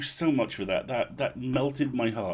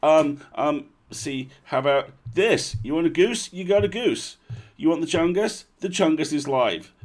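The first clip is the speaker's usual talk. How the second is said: gleeful and raised, showing off each button; delighted show-and-tell, voice up and loud; excited; 5 semitones higher, 6 dB louder than usual. Real, not acted. Host shows listeners his new gadget, gleefully excited.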